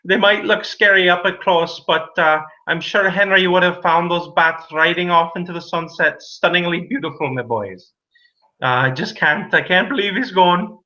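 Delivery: put-on a mild tearful old man, reminiscing; crying old man. Old man grieving to the boys at the funeral. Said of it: "this old man who's crying like".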